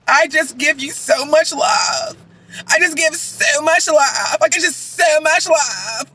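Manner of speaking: slow, drawn-out mocking love talk; mock gushing. Mimicking the wife's nonstop declarations of love, mock gushing. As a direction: stretch the words in syrupy imitation.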